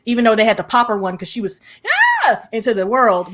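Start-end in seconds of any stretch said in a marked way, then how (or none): 2.2-2.4 short mock shriek; imitated scream. Retelling why they had to pop her one, mock shriek. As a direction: let out a brief imitation scream.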